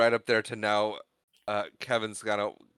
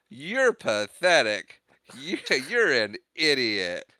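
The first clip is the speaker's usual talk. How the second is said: drawn-out, slightly raised playful insult; mock scolding; 3 semitones higher, 3 dB louder, much slower than usual. Siblings putting down little Kevin, mock scolding. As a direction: imitate a sibling putting someone down, very slowly.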